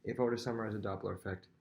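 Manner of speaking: fast, rattled-off summary; quick teacher recap. Shown as a demonstration. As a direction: rush the line out in one breath. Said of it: "this is how I would say it".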